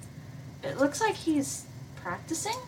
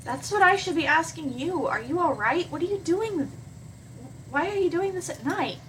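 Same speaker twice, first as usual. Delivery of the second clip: put-on young heroine, pitched higher, concerned; worried Hannah; 6 semitones higher than usual. Hannah confronts PBG in the field at night, concerned. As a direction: press him gently, higher and worried.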